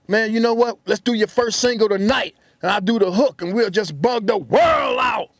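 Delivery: hyped rapper. Retold or imitated. A rapper pitching the record excitedly.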